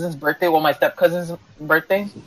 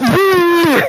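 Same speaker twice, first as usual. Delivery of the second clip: high, urgent-sounding call; 10 semitones higher than usual. Pretend. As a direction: call the name out high, playfully alarmed. Calling friend who cannot stop laughing.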